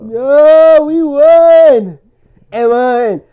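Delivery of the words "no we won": loud, firm, a little higher; loud insistence. Real, not acted. Friend insists they won the game, loud and gloating. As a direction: shut down the excuse. Gloating over football win.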